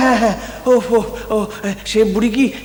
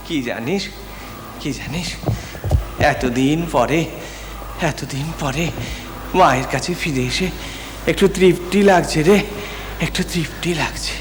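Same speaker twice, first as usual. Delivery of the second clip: soft, lower relief; 6 semitones lower, 5 dB quieter than usual. Acted. Son tells his deep relief.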